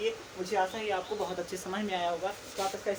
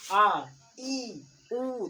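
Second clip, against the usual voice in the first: drawn-out long vowels, louder on आ; 5 dB louder, much slower than usual. Shown as a demonstration. Teacher demonstrating long vowels to students, slightly held. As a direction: hold आ, ई, उ a little longer. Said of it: "थोड़ा समय लगे".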